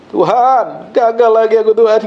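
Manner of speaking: lightly acted crying out to God; mock tearful prayer. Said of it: "kamu akan nangis sendirian bersama Roh Kudus".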